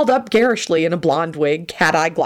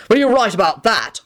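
angry; 5 semitones higher than usual. Acted. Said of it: "Arthur responded angrily".

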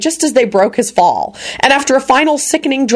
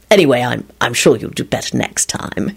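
kindly; 7 semitones lower than usual. A narrator's reading. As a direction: offer mild, kindly comfort in a lower voice. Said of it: "he finished kindly".

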